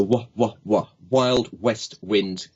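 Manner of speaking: slow, puffed W on "wah" and "Wild west wind"; blown W sounds. Shown as a demonstration. Coach sums up exercise, puffed W in "Wild west wind". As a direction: push air through rounded lips on "Wild west wind". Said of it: "gives you the wind".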